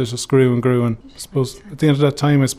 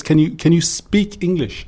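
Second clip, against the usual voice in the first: mock puzzled, slow; 4 semitones higher, slower than usual. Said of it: "Pretended to be a bit puzzled".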